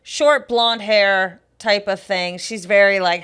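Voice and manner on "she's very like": ordinary talk, nothing marked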